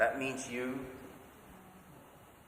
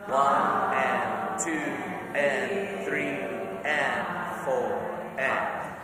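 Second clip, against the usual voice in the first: slow counting louder; 4 dB louder, much slower than usual. Shown as a demonstration. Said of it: "Again. Ready? Go".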